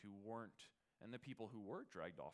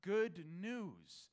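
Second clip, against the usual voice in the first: higher, louder call of good news; mock messenger yell; 8 semitones higher, 8 dB louder, much slower than usual.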